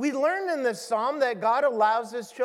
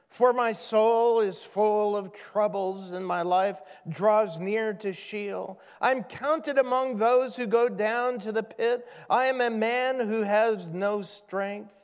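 steady, earnest reading of a lament; scripture reading. Acted. Pastor reading the psalmist's lament to the congregation, earnest. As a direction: read the psalm out with weight.

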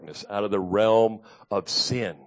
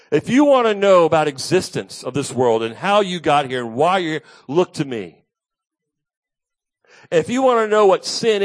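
louder, higher, impassioned sermon voice; preaching at full force; 6 semitones higher, 6 dB louder than usual. Acted. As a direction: proclaim as Jesus to the crowd. Preaching as Jesus speaking.

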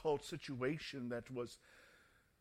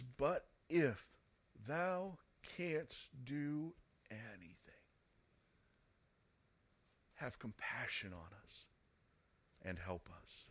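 broken; 3 semitones lower, 3 dB quieter than usual. Acted. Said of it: "His father's broken".

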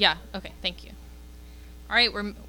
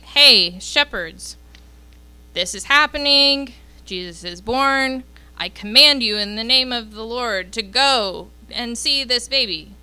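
a hammed-up angel ordering the shepherds to go; mock commanding angel. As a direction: play it up as a lofty heavenly order. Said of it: "The angel didn't say".

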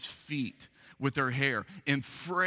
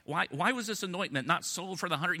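nasal accountant voice; 2 semitones higher than usual. Retold or imitated. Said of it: "nasally voice that would have said something like".

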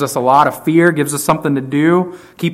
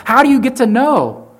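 a much higher, wondering question; imagined listener's question; 8 semitones higher than usual. Pretend. Preacher voicing a listener's question, pitched much higher. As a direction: voice a puzzled churchgoer asking. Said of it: "And you say".

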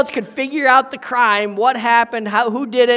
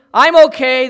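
gasped; 4 semitones higher, 10 dB louder than usual. Acted. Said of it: "the young man gasped".

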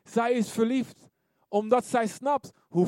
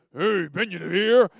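weary God; 3 semitones lower, 5 dB louder than usual. Retold or imitated. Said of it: "God ziet me aankomen zo van".

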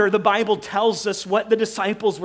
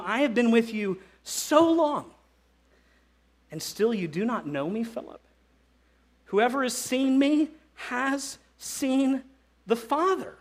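gentle and loving; 4 dB quieter than usual. Retold or imitated. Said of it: "Jesus gently and lovingly".

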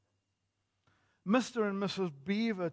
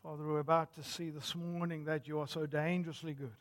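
hushed, lower public prayer; 4 semitones lower, 5 dB quieter, faster than usual. Real, not acted. Preacher asks God for clarity before preaching, prayerful. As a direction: pray softly and reverently over the congregation.

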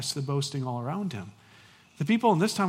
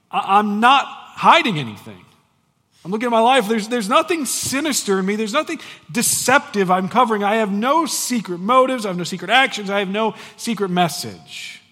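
Paul voiced; 4 semitones higher, 6 dB louder than usual. Paul voiced in first person.

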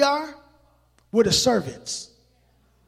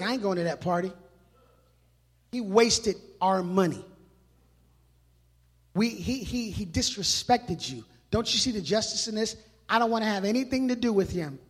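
sulky big brother; 2 semitones lower, 4 dB quieter than usual. Acted. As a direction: grumble it like a resentful older sibling. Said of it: "Big brother's like".

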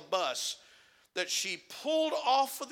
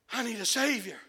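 shouted plea; 3 semitones higher than usual. Acted. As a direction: cry it out at full force.

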